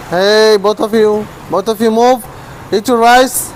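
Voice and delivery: firm call to pets; mild scolding. Real, not acted. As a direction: shoo pets toward their food. Ordering two pets to move.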